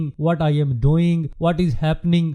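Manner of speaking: each phrase spoken slowly and deliberately; unhurried, like thinking it through; slow example phrases. Shown as a demonstration. (آہستہ اور سوچ کر بولے گئے جملے)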